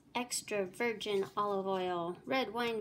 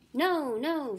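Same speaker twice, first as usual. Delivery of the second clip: urgent protest; 6 semitones higher, 6 dB louder than usual. Acted. Shekel protests the blast.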